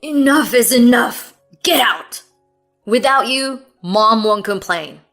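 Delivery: loud, angry eviction; furious. A narrator's reading. Husband dragging wife out the door, loud fury. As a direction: throw her out with words.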